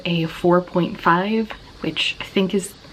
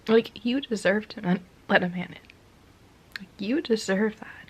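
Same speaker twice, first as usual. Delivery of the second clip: crying softly; 3 dB quieter, slower than usual. Real, not acted. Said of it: "I'm just, like, crying".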